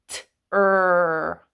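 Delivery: "T-er" drawn out into its two sounds; sounding out. Shown as a demonstration. Teacher sounding out tree for the kids, drawn out. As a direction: slowly pull "T-er" apart. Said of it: "when you say it slowly".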